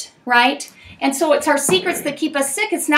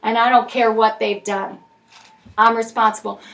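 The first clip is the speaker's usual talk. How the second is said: tender reassurance; 4 semitones lower than usual. Retold or imitated. Mother reassuring her son.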